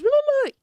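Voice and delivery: high, quick chatter noise "blu, blu, blu"; mock chatter. Women in the group chat chattering away, high babble. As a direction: imitate a flood of chat babble.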